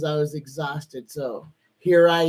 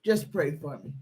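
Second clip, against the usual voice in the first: tearful plea; 3 semitones lower, 6 dB quieter than usual. Real, not acted. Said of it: "not be emotional".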